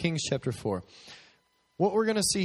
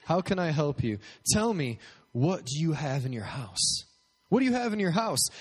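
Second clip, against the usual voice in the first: eager cashier Elisha; 5 semitones higher, 3 dB louder than usual. Pretend. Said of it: "Maybe Elisha works at Chick-fil-A".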